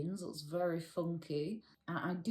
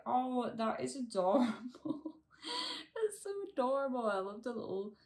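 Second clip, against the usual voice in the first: cooing; 5 semitones higher, faster than usual. Real, not acted. Cooing over a tiny plant.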